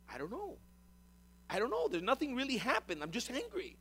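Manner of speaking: baffled protest. Retold or imitated. Acts out himself baffled by own anger.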